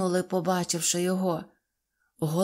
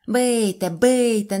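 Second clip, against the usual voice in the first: louder, insistent "бийте, бийте"; urging shout; 3 semitones higher, 6 dB louder, slower than usual. Acted. Karasik urging Neznaiko to hit him, loud urging. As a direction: egg him on loudly. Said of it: "закричав Карасик".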